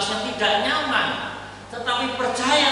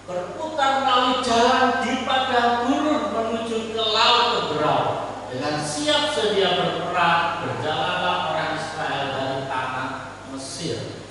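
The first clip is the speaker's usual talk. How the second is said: scripture reading. Acted. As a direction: read the verse with weight. Reads scripture aloud. (membaca ayat Alkitab dengan khidmat)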